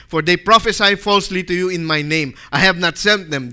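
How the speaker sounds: loud, forceful Bible reading; scripture reading. Acted. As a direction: proclaim the scripture to the congregation. Reads scripture at full force.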